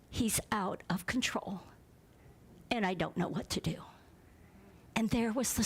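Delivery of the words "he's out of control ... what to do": breathy, broken confession; tearful hush. Retold or imitated. Mother breaking down in the principal's office, tearful whisper. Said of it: "She starts crying, bawling".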